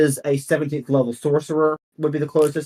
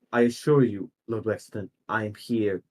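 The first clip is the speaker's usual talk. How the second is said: soft, measured council newcomer, lightly voiced; understated formal deference; Leah Lacrosse; 3 semitones lower, 3 dB quieter than usual. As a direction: assure the council quietly, with long pauses. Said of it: "Leah Lacrosse's voice goes".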